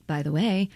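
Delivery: BY THE WAY understated, at an even everyday pitch; belabored take. Shown as a demonstration. Host retrying a line, understated take. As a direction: toss off "By the way" lightly as an alternate take. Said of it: "we belabor each take".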